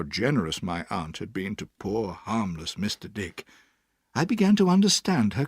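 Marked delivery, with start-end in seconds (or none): none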